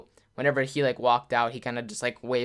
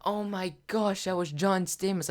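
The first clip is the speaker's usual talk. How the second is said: starstruck freak-out; 7 semitones higher than usual. Retold or imitated. Mom realises she met John Stamos, starstruck. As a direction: imitate someone contained but freaking out inside. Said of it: "freaking out. Like, not freaking out, but, like, internally".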